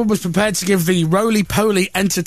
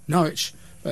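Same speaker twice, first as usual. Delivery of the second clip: mock man in the street. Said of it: "what do you think of Norwich".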